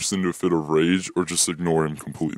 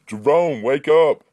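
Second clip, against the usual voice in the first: shrill wake-up yell, higher and louder; high-pitched scream; 9 semitones higher, 6 dB louder, slower than usual. Acted. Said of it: "screams a high-pitched voice".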